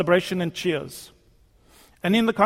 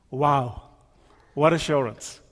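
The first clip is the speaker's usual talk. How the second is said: awed whisper; 5 semitones lower than usual. Acted. Awed reflection on God's promise.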